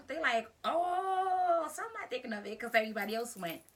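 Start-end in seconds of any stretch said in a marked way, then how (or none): 0.6-1.7 high, loud drawn-out "oh"; long teasing ohhh; instigating crowd ooh. Retold or imitated. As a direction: imitate kids stirring up a fight. Crowd egging on a fight.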